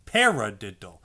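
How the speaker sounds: Paradiddle with the PA accented; Paradiddle, stressed on PA; counted paradiddle. Shown as a demonstration. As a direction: speak it like the drum pattern. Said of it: "why this is called a paradiddle".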